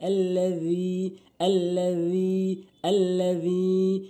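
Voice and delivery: আল্লাযী slow with the যী held one alif; long ya. Shown as a demonstration. Teacher drills the stretched আল্লাযী. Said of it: "এক আলিফ টেনেও পড়বেন".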